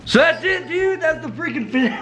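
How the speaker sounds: real cracked squeak as the voice gives out; strained voice cracking into a laugh. Real, not acted. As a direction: voice breaking up high. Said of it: "I'm losing my voice".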